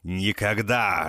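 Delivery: furious growl. A narrator's reading. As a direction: snarl it in rage. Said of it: "рычу я в бешенстве".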